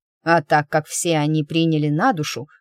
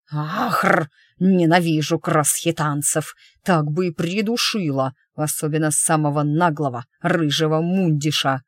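growling rage. Acted. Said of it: "она вдруг прорычала".

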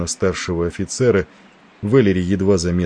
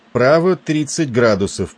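loud, higher commanding order; 6 semitones higher, 3 dB louder than usual. A narrator's reading. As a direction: bark the helm order with authority. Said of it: "Голос адмирала прозвучал громко и властно".

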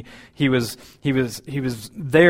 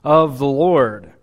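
higher, louder, slow emphatic praise; excited exclamation; 4 semitones higher, 6 dB louder than usual. Shown as a demonstration. Angel Gabriel exclaiming favor over Mary, excited. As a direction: lift it up like the thrilled angel. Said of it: "with, with exclamation".

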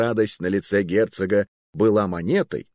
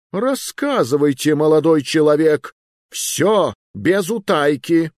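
raised, commanding royal voice; stern king; 8 semitones higher, 5 dB louder than usual. Acted. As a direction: demand it like an angry king. King demands the full story.

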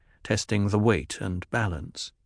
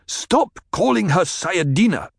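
angry objection; 9 semitones higher, 5 dB louder than usual. Acted.

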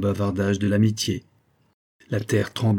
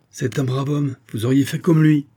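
shouting; 4 semitones higher, 4 dB louder than usual. Acted. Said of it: "cria le colonel".

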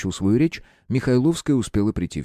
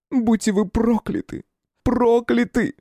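hysterical curse; slower than usual. A narrator's reading. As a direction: fling the curse twice, out of control. Woman curses detective. (истерическое проклятие высоким голосом)

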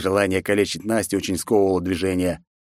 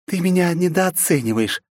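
princess voice; 10 semitones higher than usual. Acted. Nastya voiced, high.

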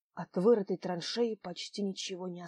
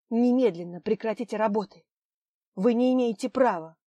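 firm, raised voice, laying down the law; a bold challenge to the foreman; militant demand; 6 dB louder than usual. Acted. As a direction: order him to stop at once. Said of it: "Надежда воинственно приблизилась".

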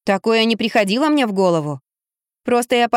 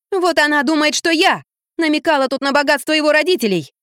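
higher, raised hysterical cry; a light hysterical outburst, pitched up; hysterical yell; 6 semitones higher than usual. A narrator's reading. Люда в истерике кричит на мужа, высоко и громко. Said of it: "впав в истерику, закричала".

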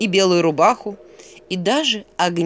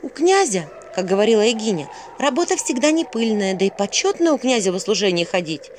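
put-on higher-pitched girl listing; reciting Vasilisa; 3 semitones higher than usual. Vasilisa repeats what she heard since childhood, reciting. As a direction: reel off the learned reasons, pitched up. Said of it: "перечисляла Василиса всё".

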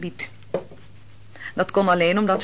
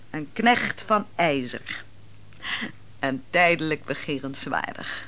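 mild mockery; 6 semitones lower, 5 dB quieter than usual. The woman pours wine and quietly teases the proud commander. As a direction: needle him gently, half under the breath. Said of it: "jij spot met mij".

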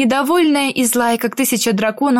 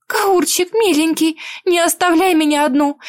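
higher, begging voice; pleading; 6 semitones higher than usual. Acted. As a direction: plead with tender desperation. Heroine begs him to stay. (умоляюще)

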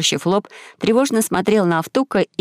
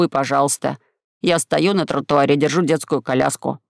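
low-voiced friend explaining; 3 semitones lower than usual. Voices Gumgam recounting.

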